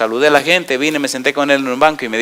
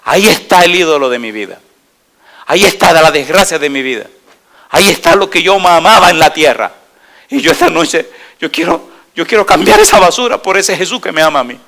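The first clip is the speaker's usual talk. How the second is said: voicing the boy; 2 semitones higher, 3 dB louder than usual.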